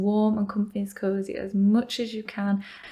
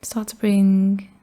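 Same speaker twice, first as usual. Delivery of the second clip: guided meditation. Acted. Yoga teacher leading listeners into yogic sleep, guided meditation. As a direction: guide them gently into rest, leaving space between phrases.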